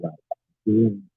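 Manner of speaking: faint, far-off phone voice; barely audible. Real, not acted. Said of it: "Baba, somehow your voice is very low".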